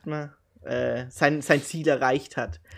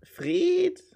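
whisper. Real, not acted. Whispered echo of name.

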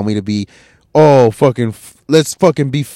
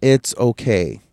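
mock reassuring; 3 semitones lower, slower than usual. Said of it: "Everybody wants to be".

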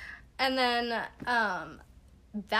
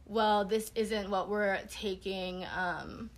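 condescending teacher; 4 dB quieter, slower than usual. Retold or imitated. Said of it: "she was like".

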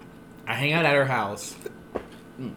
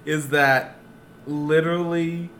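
laughing voice breaking; 4 semitones higher, slower than usual. Real, not acted. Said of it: "Why is it getting weak like that?".

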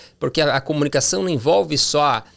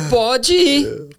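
much higher, louder ironic "Pode ir."; sarcastic permission; 11 semitones higher, 4 dB louder than usual. Retold or imitated. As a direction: say it so the yes clearly means don't you dare. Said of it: "pelo tom, você entendeu". ("Pode ir." irônico, bem agudo e forte)

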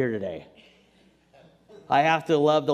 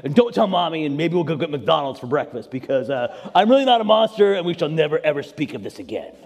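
run-on gruff backpedalling, dropping away at the end; imitated sheepish dad mumble; gruff, ashamed mumble; 2 semitones lower than usual. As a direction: cover embarrassment with gruff rambling. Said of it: "I mumbled something gruff to hide my shame".

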